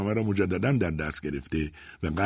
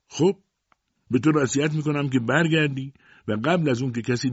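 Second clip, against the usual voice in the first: condescending father; 5 semitones higher than usual. Acted. Father gives dismissive advice.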